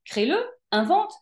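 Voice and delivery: plus aigu, élan pressant; exhortation enthousiaste. Retold or imitated. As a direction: pousser l'autre à créer, avec entrain. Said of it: "Et moi, j'étais là, bah". (encouragement vif et aigu)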